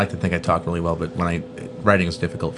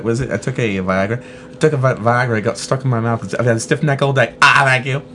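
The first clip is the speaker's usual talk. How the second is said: lightly done British rogue; Austin Powers' dad. Acted. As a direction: slip into a Cockney comic character. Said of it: "has to be Austin Powers' dad".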